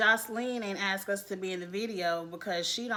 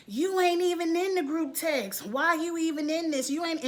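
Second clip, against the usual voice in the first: mock catty taunt; 7 semitones higher than usual. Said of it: "And it's like".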